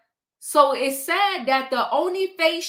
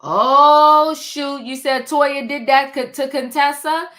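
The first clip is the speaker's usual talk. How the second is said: sudden loud "oh shoot" of fake shock; mock surprise; 5 dB louder than usual. Host acting out her surprise at the gossip, loud mock shock. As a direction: burst out as if the news just landed.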